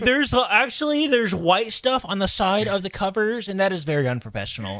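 lightly nasal know-it-all nerd; mild nerdy correction voice. Acted. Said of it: "your nerd voice is great".

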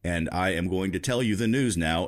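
flat robotic newsreader voice; robot voice, stiff and even, like a 1970s anchor. Pretend. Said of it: "in a robotic voice".

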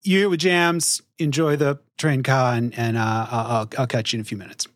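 put-on heavy Boston accent, quick and casual. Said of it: "approximation of a heavy Boston accent trying to say train car".

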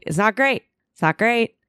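high sing-song verdict. Retold or imitated. Repeating to herself while dissociating, high lilting mock repeat. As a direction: bounce it up, lightly ironic. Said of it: "you go".

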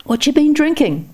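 high, delighted question; old man curiously asking the drunk. A narrator's reading. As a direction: ask with sparkling interest. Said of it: "eyes sparkling with interest".

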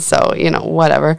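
ordinary delivery

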